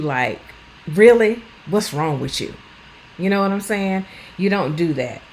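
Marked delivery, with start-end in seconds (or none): 0.9-2.5 a loud incredulous "Really?" then a dropped jab; mock disbelief at them; sarcastic impatient carer. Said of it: "don't say things like".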